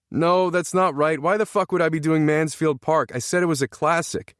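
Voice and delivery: high-pitched exasperated outburst. A narrator's reading. Exasperated player scolding wrong guessers.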